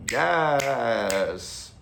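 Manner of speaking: loud high whoop of agreement; excited yes. Real, not acted. Cheering his own quoted line, loud excited yes.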